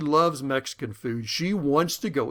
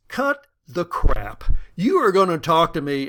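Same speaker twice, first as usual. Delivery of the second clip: stern demand; 7 dB louder than usual. Retold or imitated. Wife finally fed up.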